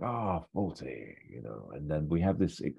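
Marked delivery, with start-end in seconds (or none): 0.0-1.1 put-on slow, soft old gent greeting; imitating the Major. Old major greeting the hotelier, slow and soft. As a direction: draw it out like a doddery major. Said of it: "he's like".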